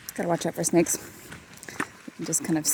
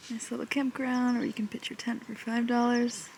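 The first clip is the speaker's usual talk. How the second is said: whispering; 3 semitones higher, 6 dB quieter than usual. Real, not acted. Whispering at campground.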